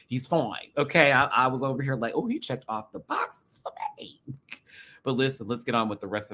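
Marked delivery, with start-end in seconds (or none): 2.1-4.2 swooning falsetto. Retold or imitated. Mock swooning inner quote.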